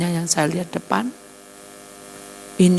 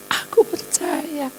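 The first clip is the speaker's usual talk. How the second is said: pleading yes; 11 semitones higher, slower than usual. Acted. Second answer to angel.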